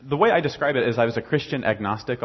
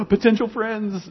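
high, slow, breathless with glee; mock eager delight; 11 semitones higher, 6 dB louder, slower than usual. Older congregation eyeing newcomers, hammed-up eager delight. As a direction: savour it like a prize found.

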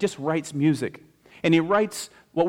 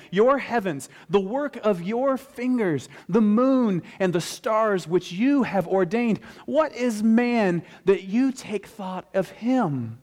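impassioned scripture reading; 6 semitones higher than usual. Acted. Preacher reading Psalm eight to the congregation, impassioned reverence. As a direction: proclaim the psalm with awe, drawing out the words.

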